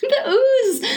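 laughing. Real, not acted. Repeating with laugh.

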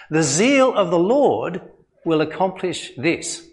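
measured, solemn reading of scripture. Acted. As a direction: read it out as holy words. Reads Isaiah prophecy aloud.

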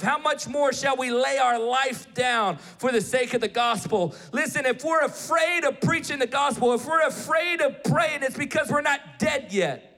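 rising, shouted sermon into prayer; preaching at full force. Acted. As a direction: build it to a fiery altar call. Preaching climax then prayer.

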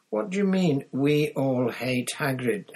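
loud, high, indignant challenge; spat out angrily. A narrator's reading. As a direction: spit the question at a rival. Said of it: "Harry spat at Malfoy".

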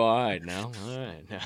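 understated Saban voice, half joking; Nick Saban impression. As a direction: lightly imitate the coach's West Virginia twang. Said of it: "stick to my Saban impressions".

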